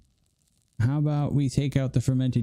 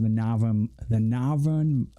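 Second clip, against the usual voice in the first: put-on Northern accent; slower than usual. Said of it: "the Northern accent as well".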